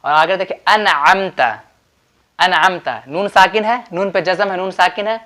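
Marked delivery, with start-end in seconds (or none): 0.7-3.0 अनअमता with a distinct N before the ayn; careful model of अनअमता, no nasal hum; izhar pronunciation. Shown as a demonstration. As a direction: sound the noon of अनअमता clearly, without ghunna. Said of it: "जाहिर करके पढ़ना है".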